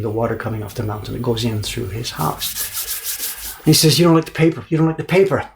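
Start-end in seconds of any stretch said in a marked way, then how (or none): 4.0-5.5 frustrated. Retold or imitated. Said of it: "His frustrated voice".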